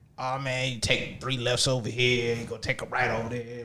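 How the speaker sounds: soft, smoke-worn voice. Retelling asking a man at the gas station for directions: smoker's voice. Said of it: "my man got a smoking voice".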